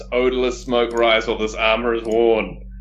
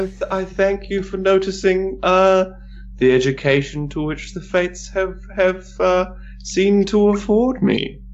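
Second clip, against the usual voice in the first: put-on higher, pompous old-fashioned gentleman; disguise voice; 3 semitones higher than usual. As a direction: speak like a grand flowery noble. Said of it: "he's doing a disguise voice".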